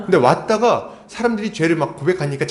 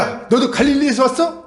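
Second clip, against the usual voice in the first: higher, irritated snap-back; retorting in mock annoyance; heated retort; 9 semitones higher than usual. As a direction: Pharisees snapping back at Nicodemus, irritated and higher. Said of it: "열받으니까 얘기를 하는 거예요".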